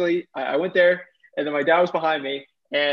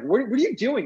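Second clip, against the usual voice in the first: imitating a dad's puzzled, higher-pitched question; baffled questioning; 8 semitones higher than usual. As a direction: ask it high, like a dad caught off guard. Dad questions his frantic son.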